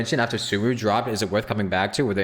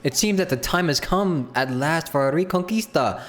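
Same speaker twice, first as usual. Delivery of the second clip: higher, impressed, then proclaiming; awed then grand knight; 7 semitones higher than usual. Acted. Streamer dubbing the knight praising Wop, awed then proclaiming. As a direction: marvel at him, then declare the quest. Voices game dialogue.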